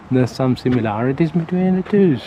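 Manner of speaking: lightly put-on Irish accent; playful mock Irish lilt on the twos; chatting in a hammed-up Irish accent. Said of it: "Now it's proper Irish".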